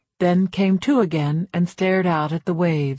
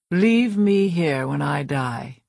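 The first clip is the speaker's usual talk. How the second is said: dying woman's voice; 3 semitones lower, slower than usual. Acted. Dying psychologist's last request.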